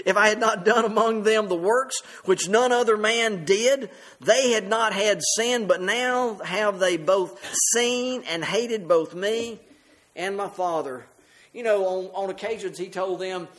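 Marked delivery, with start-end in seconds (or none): 0.1-11.0 deliberate, measured Bible reading; slower scripture reading. Shown as a demonstration. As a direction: read it out slowly, phrase by phrase. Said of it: "I'll read it slowly".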